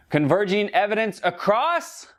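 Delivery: high, bright prompt for the audience to shout back; kids show host. Acted. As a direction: ask it like a children's TV host waiting for kids to answer. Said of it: "one of them interactive kids shows".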